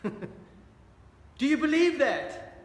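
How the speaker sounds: slow, laughing challenge to the room; laughing question. Real, not acted. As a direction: chuckle through it as you ask. Preacher laughs at the congregation.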